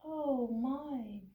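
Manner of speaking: breathy, hushed little gasp of awe; hushed scared mouse; timid whisper. Acted. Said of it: "it went up and it said".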